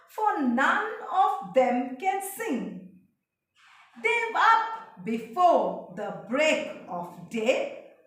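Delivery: reading the poem aloud to the class, lines lifted; a teacher's careful poem read; poem recitation. Shown as a demonstration. Teacher reciting a poem to her class, clear and measured.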